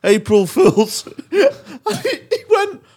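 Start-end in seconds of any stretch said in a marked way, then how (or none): 0.0-1.1 slow, laughing April Fools; laughing reveal. Retold or imitated. Telling the brother it was a prank, laughing. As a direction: crack up as you say it.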